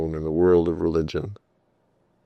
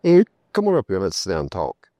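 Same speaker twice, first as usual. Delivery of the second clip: friendly invitation; faster than usual. Retold or imitated. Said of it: "John invites kid over".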